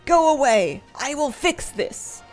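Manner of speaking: slow, dragged-out ogre voice; lumbering brute, words pulled long; cartoon brute. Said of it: "the ogre voice and the way he says it".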